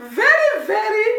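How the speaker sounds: laughing. Real, not acted. Laughing at the DNA result.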